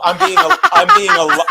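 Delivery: high, loud laughter breaking through the words; can't finish for laughing. Real, not acted. Host at his nephew's age joke, laughing it out.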